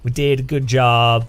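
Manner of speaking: put-on a modest Finnish promo voice in a hesitant Finnish accent; attempted Finnish accent. Imitating a humble Finnish company video in a shy Finnish accent. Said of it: "I can't do Finnish accent".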